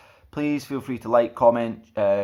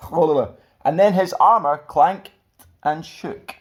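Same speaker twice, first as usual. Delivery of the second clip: slower, laughing through the retry; 5 semitones higher, 6 dB louder, much slower than usual. Real, not acted. The speaker laughs at his own slip, retries slowly. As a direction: get it right through giggles.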